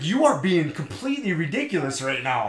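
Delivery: amused, exasperated comeback; retold exasperation. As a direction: act out fed-up disbelief. Exasperated retort in retold quarrel.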